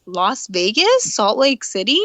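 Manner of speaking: drawn-out questioning echo of others; mock-puzzled, slow rising question; imitated puzzlement. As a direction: mimic people querying an unlikely place. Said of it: "People sort of look at you like".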